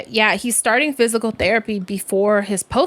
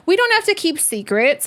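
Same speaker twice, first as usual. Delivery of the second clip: gentle reassurance; 7 semitones higher than usual. Retold or imitated. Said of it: "And I was like".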